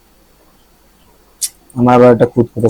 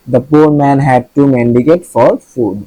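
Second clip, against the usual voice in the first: slow example read; much slower than usual. Shown as a demonstration. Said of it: "reading example sentence slowly".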